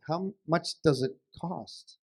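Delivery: "how much does it cost" a bit slow; patient, slightly slowed "how much does it cost"; measured question. Acted. Husband asks wife the price.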